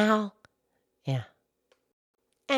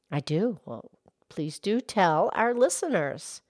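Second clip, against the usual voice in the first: much lower, gentle cow voice; Mildred the cow; 5 semitones lower, 7 dB quieter than usual. Acted. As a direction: drop the pitch low to play the old cow. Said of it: "Mildred the Moo Moo Cow".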